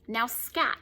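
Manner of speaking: a quiet, firm command from a stunned mother; quietly. Acted. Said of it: "She said quietly".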